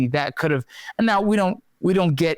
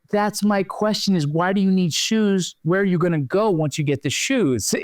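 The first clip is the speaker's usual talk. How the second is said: amused questioning; 4 semitones higher than usual. Retold or imitated. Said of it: "she laughs and she goes".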